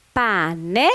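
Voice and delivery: "pané" as two separate beats, pa and né; syllable by syllable. Shown as a demonstration. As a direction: read out pané in split syllables. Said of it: "Então, eu tenho aqui". (lendo sílaba por sílaba)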